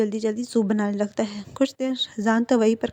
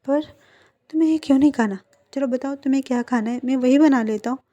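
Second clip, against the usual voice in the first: surprised pleading; 3 semitones higher, 5 dB louder, faster than usual. Acted. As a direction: voice jumps up, louder, puzzled. Ibo surprised by refusal. (हैरान होकर ज़ोर से मनाना)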